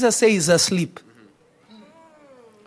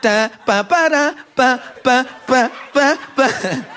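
mock beat. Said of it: "group that loved to make dances with coffee".

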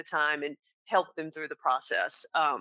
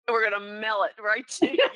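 laughing; 4 semitones higher, 6 dB louder than usual. Acted. Joking reply to older client, laughing.

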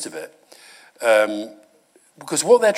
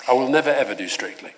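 laughing. Real, not acted. Jokey answer to Strictly question.

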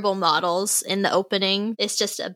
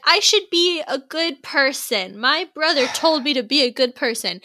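mock earnest hero; 4 semitones higher than usual. Mocking the show's hero to the co-host, mock-earnest. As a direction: send up a naive hero's resolve. Mocking the hero's inner monologue.

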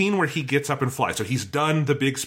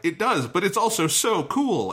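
slow, higher, gushing agreement; delighted; 6 semitones higher than usual. Retold or imitated. Answering the toy comment, slow delighted gush. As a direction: insist it's cool with glee. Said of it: "I'm like".

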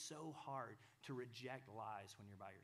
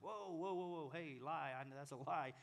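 higher, louder, bold rebuke; loud defiant "whoa"; 4 semitones higher, 6 dB louder than usual. Acted. A believer rejects the lie with a loud rebuke. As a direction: shout the lie away.

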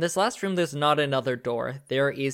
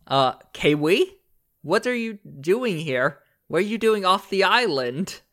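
puzzled recognition, rising questions; surprised character voice, lifting toward the end; acted surprise; 5 semitones higher, 5 dB louder than usual. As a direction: play mild astonishment at meeting a friend. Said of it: "Sergey steps forward and goes".

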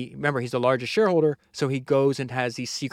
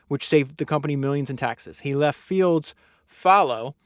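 projected, emphatic reading aloud; book narration; 3 semitones higher, 4 dB louder than usual. Acted. Host reads how the new boss saved the company, book narration. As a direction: read each achievement out firmly.

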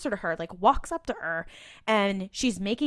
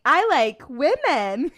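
slow, high, hammed-up manly voice; mock macho line, drawn out; mock macho drawl; 6 semitones higher, 6 dB louder, slower than usual. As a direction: lampoon a guy trying to sound straight. Mocking Dean's attempt at flirting.

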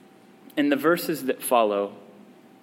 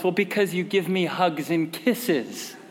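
amused quoting of son. Retold or imitated. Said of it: "His response was".

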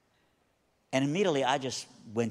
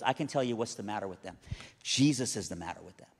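calm answer; 3 semitones lower than usual. Retold or imitated. Wife calmly answers the frantic lady.

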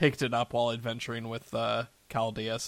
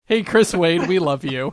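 tag; 4 semitones higher, 9 dB louder than usual. Pretend. Player calls out to Chris Wade.

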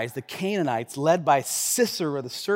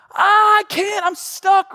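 high, loud panicked plea; panicked cry; 13 semitones higher, 6 dB louder, slower than usual. Retold or imitated. Stuck climber crying to his guide, high and panicked. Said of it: "And I'm like".

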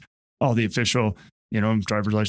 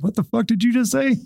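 higher, sharp mock comeback; mock indignant snap; 9 semitones higher than usual. Cop snapping back at a rude driver, hammed-up indignation. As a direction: fire back a hammed-up challenge. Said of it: "And I'd be like".

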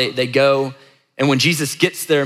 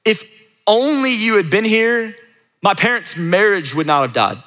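high, halting plea that drops at the end; raised appeal to God, broken by pauses; honest, unfiltered prayer; 5 semitones higher than usual. Pretend. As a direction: pray it out as a heartfelt lament. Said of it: "it would look like this".

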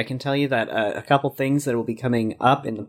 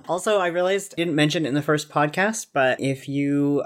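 voice cracking; 3 semitones higher than usual. Real, not acted. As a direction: voice cracking mid-sentence. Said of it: "wish my voice hadn't cracked".

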